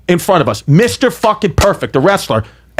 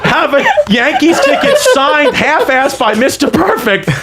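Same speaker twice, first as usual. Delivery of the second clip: slow, higher, laughing through the words; can barely get it out for laughing; 8 semitones higher, slower than usual. Real, not acted. Telling the hosts about the signed ticket, laughing.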